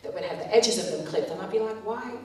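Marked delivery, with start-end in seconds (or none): 1.8-2.1 put-on higher-pitched puzzled kid question; raised, wondering little query. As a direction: ask dad why, genuinely puzzled. Voices her puzzled young self questioning father.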